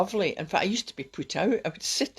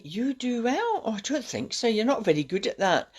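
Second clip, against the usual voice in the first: put-on dismissive boyfriend; 4 semitones higher than usual. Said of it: "he went along in that kind of train of thoughts".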